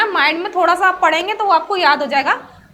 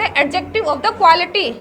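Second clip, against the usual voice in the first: drawn out word by word, as if writing on the board; slow dictation; much slower than usual. Shown as a demonstration. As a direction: say it slowly so the class can copy. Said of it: "उसे ... कहते हैं".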